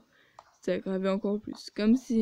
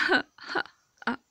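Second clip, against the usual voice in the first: high mocking fake laugh; 8 semitones higher, faster than usual. Rival mocks the narrator with a high fake laugh. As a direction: laugh at her to mock her.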